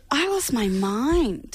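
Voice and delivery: slow, laughing and amazed. Real, not acted. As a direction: laugh it out, drawn out. Laughing reaction to the rap.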